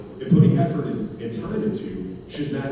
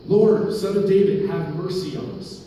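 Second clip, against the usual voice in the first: slow, raised plea, loud then easing off; pleading call; 6 semitones higher, 5 dB louder than usual. Retold or imitated. Blind men beg Jesus for mercy, slow raised plea. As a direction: imitate a beggar crying out for mercy.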